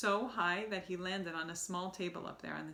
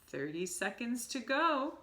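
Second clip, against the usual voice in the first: slow, higher gloating witch call; witch counting down; 5 semitones higher, 3 dB louder, slower than usual. Acted. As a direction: count it down with relish. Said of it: "cried the ha-, Grand High Witch".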